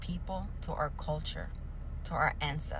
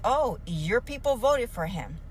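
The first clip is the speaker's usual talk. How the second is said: louder, slow mock accusation; mocking quote; 4 semitones higher, 4 dB louder than usual. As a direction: sneer it like the accusers do.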